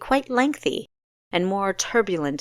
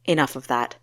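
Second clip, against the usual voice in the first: calling a ceasefire; 5 semitones lower, faster than usual. Acted. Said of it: "in a tone that signaled a ceasefire".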